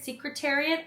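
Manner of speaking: Secretariat with "seek" as the first syllable; alternative pronunciation. Shown as a demonstration. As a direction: say Secretariat as "SEEK-ruh-tair-ee-at", questioning. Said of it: "I really don't know how to pronounce this".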